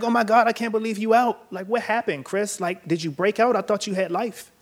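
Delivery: high-pitched, incredulous mom on the phone; imitated amazed questioning, voice lifted high; astonished mom. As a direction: act out a mother's stunned disbelief, pitched well up. Imitates mom's astonished phone call.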